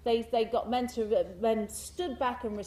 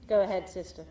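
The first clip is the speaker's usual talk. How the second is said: sheikh voice; 3 semitones lower, faster than usual. Retold or imitated. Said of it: "He did this".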